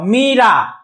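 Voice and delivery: मीरा with the मी held longer; long ee in Meera. Shown as a demonstration. Teacher shows students मीरा with a lengthened मी. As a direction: draw out the मी in मीरा. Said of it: "ज्यादा मी ज्यादा देर तक बोल रहे हैं".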